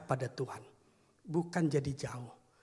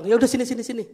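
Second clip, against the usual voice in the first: calling him over; 8 semitones higher, 13 dB louder, much faster than usual. Acted. Pastor giving in warmly.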